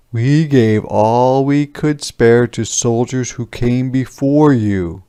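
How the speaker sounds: excusing peasant. Acted. Albert excusing himself to soldiers, mildly defensive voice. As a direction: make an excuse.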